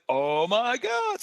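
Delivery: replaying a stunned discovery; retold amazed realization. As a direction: stretch it out in dawning realization. Retells moment of realization.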